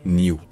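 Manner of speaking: "New" as nyoo, with a y; British y glide. Shown as a demonstration. Teacher showing what never to say, British glide. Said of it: "ce n'est jamais".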